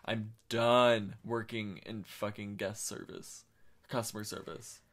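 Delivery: slow, weary and fed up. Retold or imitated. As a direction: drag it out, totally done. Fed-up inner thought, slowed.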